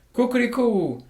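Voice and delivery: high, loud crowing call; cock-a-doodle crow; rooster crow. Acted. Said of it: "crowed the rooster".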